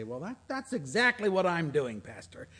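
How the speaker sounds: overexcited churchgoer, building from eager protest to a loud quivering cry; mock ecstatic worshipper. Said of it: "They'll say".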